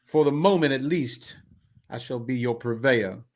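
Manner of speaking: slightly grand, measured delivery; lightly voiced carnival man. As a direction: muse aloud with mild ceremony. Voices a game character.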